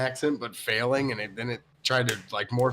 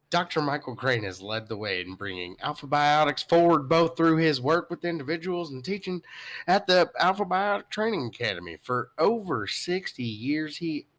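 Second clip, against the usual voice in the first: George W. impression; 3 semitones higher than usual. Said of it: "I'll give you more of a, like, uh, George W".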